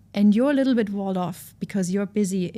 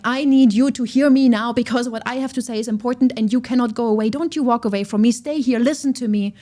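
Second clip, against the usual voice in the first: loud, insistent, demanding to be heard; a grandiose angry partner refusing to let you leave; heated family shouting; 3 semitones higher, 4 dB louder than usual. Pretend. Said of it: "That's intrusive. That's where anger lives. This is like".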